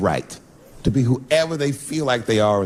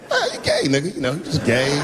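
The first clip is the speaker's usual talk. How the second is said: mock mumbling. Asked his opinion of the engaged couple, mock mumbling. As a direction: imitate stalling with vague mumbles. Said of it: "I started mumbling again".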